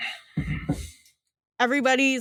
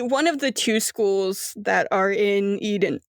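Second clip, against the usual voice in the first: burping. Real, not acted. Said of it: "Sorry, I burped".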